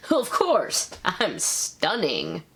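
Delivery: mock smug, drawn-out boast; vain Steele. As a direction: savour the brag, slow it right down.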